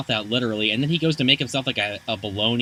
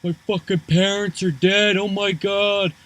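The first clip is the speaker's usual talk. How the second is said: panicked exclaiming, pitched high; high-pitched retold panic; mock freak-out; 8 semitones higher, 3 dB louder, slower than usual. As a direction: imitate someone freaking out. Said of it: "and he's freaking out".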